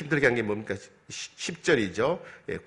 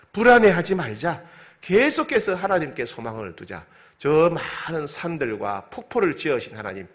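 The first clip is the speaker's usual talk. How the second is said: fervent resolve; 2 semitones higher than usual. Acted. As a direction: rouse yourself with rising conviction. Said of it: "자기 영혼에게 말합니다". (스스로에게 힘차게 다짐하는 말투)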